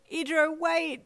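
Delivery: high, distressed wail. A narrator's reading. Flustered by a friend's offer, high protesting wail. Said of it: "you wailed".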